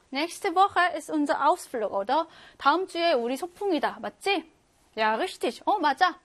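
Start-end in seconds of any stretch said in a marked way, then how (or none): 0.1-2.3 Das Wetter war unfreundlich read very slowly; slow German read-aloud. Shown as a demonstration. Teacher reading the exam sentence slowly to students. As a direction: dictation pace, each word separate. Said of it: "예상되는 날씨 볼게요".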